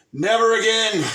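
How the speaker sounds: high, loud mocking "Never again"; hammed-up shout of the idiots; mock outraged cry. Mocking the voters, loud and high. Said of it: "the first thing you idiots say is".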